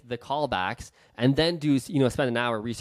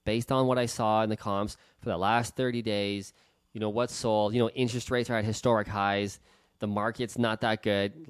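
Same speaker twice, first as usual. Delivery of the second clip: apologetic; 4 semitones lower than usual. Retold or imitated. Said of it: "slip into this by accident because they're Canadian".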